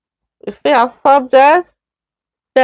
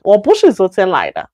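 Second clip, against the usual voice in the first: fluent run-through; 3 semitones lower, faster than usual. Shown as a demonstration.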